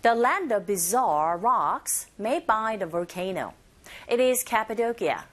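slow model with buzzing z in "bizarre"; teacher slowly models the phrase; slow drill line. Shown as a demonstration. Teacher drills the phrase slowly for students to repeat. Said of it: "give a shot in the sentence".

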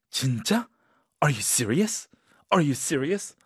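stunned, rising disbelief; can't believe the news, ask again; really surprised. Shown as a demonstration. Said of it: "really, really surprised". (정말 놀란 말투)

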